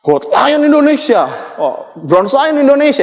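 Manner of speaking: high, slow stage announcer calling winners; award announcer. Retold or imitated. Speaker mimics the stage host calling award winners, in a slow, high announcer voice. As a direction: stretch each name out like calling winners on stage. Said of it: "nama-nama orang yang dipanggil".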